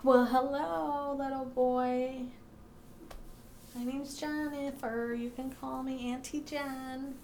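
slow, coaxing auntie voice. Real, not acted. Greeting a ghost little boy.

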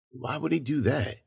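hushed question, as if half to oneself; wondering aloud. A narrator's reading. William puzzling over the shooting video, wondering aloud. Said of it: "William wondered aloud".

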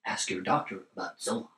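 mock drug ad. Reading card as drug commercial.

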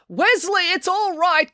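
high-pitched, reassuring call to Wesley. A narrator's reading. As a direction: call out high to soothe him. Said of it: "called the cat lady".

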